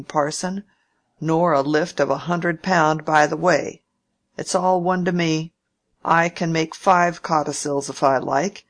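a hint of a testy old uncle, pushing hard; old Featherstone.

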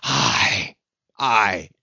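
loud, forceful oath; shouted out. A narrator's reading. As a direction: hurl out each aye with weight. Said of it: "he shouted out".

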